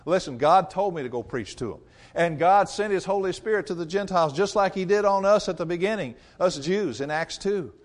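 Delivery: calming Peter. Acted. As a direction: talk them down easy. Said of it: "Peter has to say".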